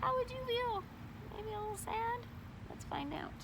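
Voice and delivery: high, soft sympathetic aside. A narrator's reading. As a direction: ask the children gently.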